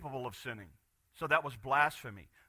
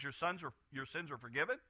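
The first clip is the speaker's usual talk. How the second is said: Jesus forgiving; 7 dB quieter than usual. Retold or imitated. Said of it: "turns around to them and says".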